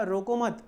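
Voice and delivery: "रोको मत" as one unit, no break; मत joined to रोको. Shown as a demonstration. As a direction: run रोको straight into मत. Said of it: "उसने क्या इंटरप्रेट किया?". ("रोको मत" बिना विराम के)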